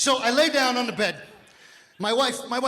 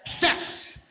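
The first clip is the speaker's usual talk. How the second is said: breathy whispered reveal; whispered punchline; 5 semitones higher than usual. Acted. Comic telling crowd the answer, whispered. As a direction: whisper it like a dirty secret.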